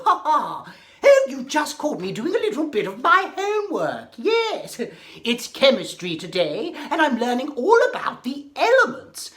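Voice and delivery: lightly voiced hatter, chattering fast; a hint of the hatter, chatty and bright-eyed; Mad Hatter. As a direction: Mad Hatter caught doing chemistry homework. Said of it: "Mad Hatter here".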